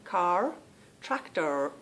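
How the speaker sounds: attempted American R ending "Car" and "tractor"; practised American R. Trying out her family's sound, American R on each word. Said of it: "how I tried to learn that R".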